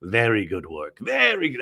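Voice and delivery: a light, slowish wise-teacher voice; Pat Morita imitation. Mister Miyagi praising Jen from the side, lightly imitated. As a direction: mildly play the calm sensei approving. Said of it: "That's my Pat Morita imitation".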